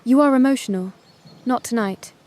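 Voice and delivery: put-on Vietnamese-accented English with a touch of anger; a hint of a cold Vietnamese accent; angry Vietnamese accent. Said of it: "in Vietnamese accented English she used only when she was angry".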